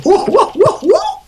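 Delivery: high excited whoa. Pretend. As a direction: gasp it out in delight. Mock excited exclamation.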